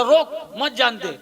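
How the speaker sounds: रोक set apart, then मत जान दे slowly; slow reading, रोक alone before मत जान दे; pause after रोक. Shown as a demonstration. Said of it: "माने".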